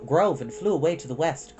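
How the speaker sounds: usual speaking voice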